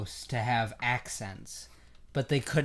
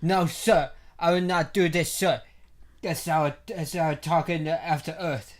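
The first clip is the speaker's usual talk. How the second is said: louder mock Trump voice, "sir" said with no R; a light send-up of Jaden's half-Trump accent; Jaden doing Trump; 3 semitones higher, 5 dB louder than usual. Podcaster mocking Jaden's After Earth line, mock Trump voice. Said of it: "trying to do a little bit of a Trump impression".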